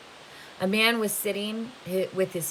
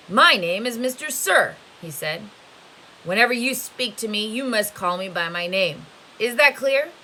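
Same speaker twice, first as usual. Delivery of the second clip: stern boss; 3 semitones higher, 5 dB louder than usual. Acted. Camp boss lays down the rules.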